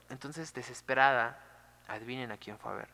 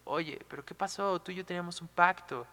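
higher-pitched, indignant reproach; angry Cupid; 5 semitones higher, 4 dB louder than usual. Retold or imitated. Cupid confronts Psique over their broken pact, indignant. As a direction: act out an offended lover's complaint. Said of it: "así súper enojado".

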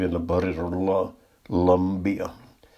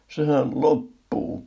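drawn-out, higher-pitched wail; alarmed cry; 6 semitones higher, 3 dB louder, slower than usual. A narrator's reading. Shopper sees the toilet paper going, drawn-out alarmed cry. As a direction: cry out in mild panic, stretching it. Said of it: "parkaisin ja pistin juoksuksi".

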